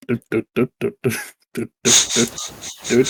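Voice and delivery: soft little do-do noises; quiet, oblivious pattering sounds; imitated kobold trotting. Game master being the oblivious kobold, soft imitated trotting noises.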